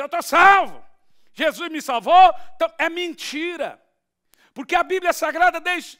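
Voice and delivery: loud, high-pitched pulpit proclamation; full-force preaching. Real, not acted. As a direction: proclaim the verse at the top of your voice.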